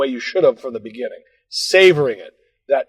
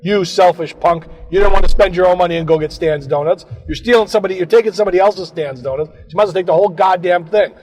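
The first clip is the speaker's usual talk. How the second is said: self-scolding; 6 semitones higher, 4 dB louder than usual. Retold or imitated. Scolding himself.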